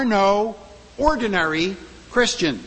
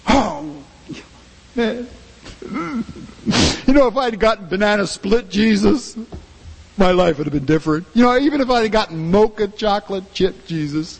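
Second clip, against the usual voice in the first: glum mopey Christian. Acted. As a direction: whine like a believer who feels shortchanged. Continued mock lament, ice-cream Jesus.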